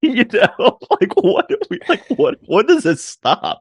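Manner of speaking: high-pitched exasperated whine. Real, not acted. Fed up with bad road trips.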